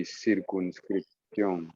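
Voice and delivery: circunscripción said slowly in Spanish; Spanish pronunciation. Shown as a demonstration. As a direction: say circunscripción syllable by syllable, Spanish sounds. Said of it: "in Spanish".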